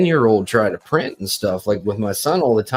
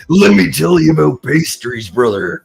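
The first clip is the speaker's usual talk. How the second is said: tense wrestler promo voice; Macho Man; 4 dB louder than usual. Retold or imitated. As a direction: pump it up like a promo. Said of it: "Randy, you need to calm down".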